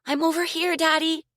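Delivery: loud, high call for help. Acted. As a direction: shout across the dark to daddy. Lost girl calling for father.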